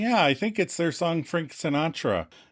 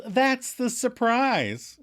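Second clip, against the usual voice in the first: smiling; 10 semitones higher, much slower than usual. Retold or imitated. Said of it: "And Monica smiles".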